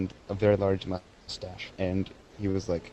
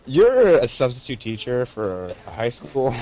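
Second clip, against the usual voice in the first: mock retort; 6 dB louder, slower than usual. Classmates answering the substitute teacher, louder mock retort. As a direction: call him out with a hint of mockery. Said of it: "And we're like".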